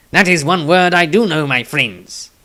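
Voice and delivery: pleased, lightly voiced companion; lightly voiced halfling. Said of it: "Tobias smiled".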